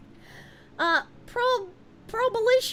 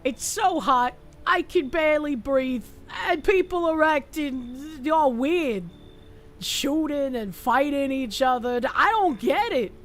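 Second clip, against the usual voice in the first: lightly voiced dim-witted boy, worried and lost; dumb voice. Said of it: "I gave him a dumb voice".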